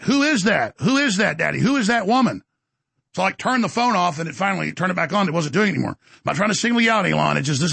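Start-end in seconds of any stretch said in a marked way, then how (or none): 0.0-2.4 put-on higher, insistent child asking; imitating daughter. Daughter demands who the woman on the phone is, insistent. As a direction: press the question like a worried kid. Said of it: "my daughter's like".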